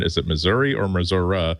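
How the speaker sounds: first Missouri as "mi-ZUR-ee", then "mi-ZOR-uh"; two Missouri pronunciations. Shown as a demonstration. Speaker recalling question in Kansas City, contrasting Missouri endings. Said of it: "that was my first question".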